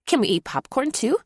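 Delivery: put-on a hopeful kid asking for a treat; eager little girl. A narrator's reading. Daughter to dad: high eager question. English asks.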